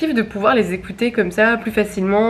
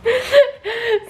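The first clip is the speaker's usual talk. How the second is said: high laugh; 14 semitones higher than usual. Real, not acted. Cracking up about cleaning vlogs.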